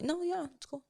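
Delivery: mock flat guy. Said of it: "But guys are like".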